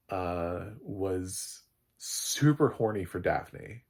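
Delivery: normal talking voice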